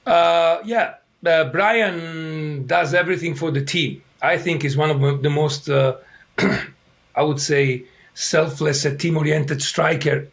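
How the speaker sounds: hoarse from yelling; worn, rough voice clearing throat. Real, not acted. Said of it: "too much yelling".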